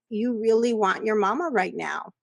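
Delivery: put-on soothing a child. Shown as a demonstration. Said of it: "when you say".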